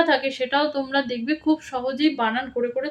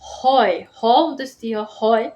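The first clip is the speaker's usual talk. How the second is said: spelling out; 3 semitones lower, 6 dB louder, slower than usual. Shown as a demonstration. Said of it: "আমি কিভাবে বলছি".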